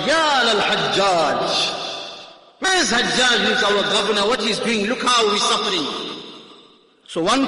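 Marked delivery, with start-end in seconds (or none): 0.1-5.9 retold cry for help. Muslim woman off the ship crying out to Hajjaj, mild mock shout. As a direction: call out the name pleading for rescue. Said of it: "and she shouted".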